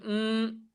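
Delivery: short, soft hum in place of the word pero; a soft mm standing in for the connector; hummed pause. Shown as a demonstration. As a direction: hum a brief thinking pause instead of saying pero. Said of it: "sino con la voz voy a hacer".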